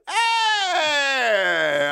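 put-on high, loud Greek-accented cry; mock Greek accent. Comic riffing on a Greek dude, exclaiming in a put-on Greek accent. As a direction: burst out in a hammed-up Greek accent. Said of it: "trying not to do the accent".

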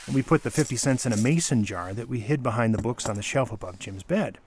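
usual speaking voice

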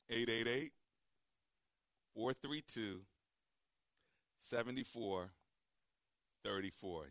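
spaced out slowly with long pauses; slow dictation. Real, not acted. Host giving listeners the phone number, slowly for writing down. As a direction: read out slowly, group by group. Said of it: "slow enough for you to write it down".

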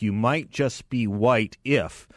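slow, drawn-out comic setup and punchline; Jeff Foxworthy. Retold or imitated. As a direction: lightly mimic a stand-up's catchphrase joke. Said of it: "almost like a Jeff Foxworthy, uh, joke".

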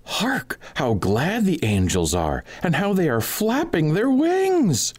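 high, ringing call to the fools; high mocking cry to the two in the sack; mock-solemn cry. A narrator's reading. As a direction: cry out high and grand as if on a journey. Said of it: "he said".

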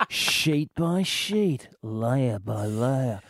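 very slow, low, drawn-out sultry read; seductive ad voice. Pretend. Host teasing callers with slow sultry food-ad voice. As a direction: seduce the listener with lasagna.

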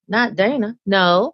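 mildly incredulous protest; disbelief. Retold or imitated. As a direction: recall refusing to believe it. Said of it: "I was in the state of disbelief".

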